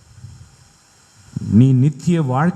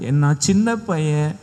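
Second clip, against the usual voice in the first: put-on a little boy. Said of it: "எரேமியா சொல்லுவார்".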